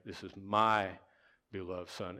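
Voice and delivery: weight "my", then drop away on the rest; stress on MY. Shown as a demonstration. Preacher shows congregation the key word, stressing "my". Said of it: "look at the word "my".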